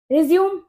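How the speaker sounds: रिज्यूम as "ri-ZYOOM", ending on m; verb pronunciation. Shown as a demonstration. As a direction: say रिज्यूम in two syllables, no final e. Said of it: "इसे क्या बोलोगे आप". (रिज्यूम, आख़िर में "म" पर बंद)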